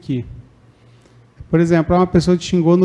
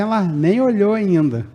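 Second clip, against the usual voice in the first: higher, indignant quote of someone fuming; mock indignation; 5 semitones higher than usual. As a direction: huff as if you were still angry at her. Imitating an indignant bystander.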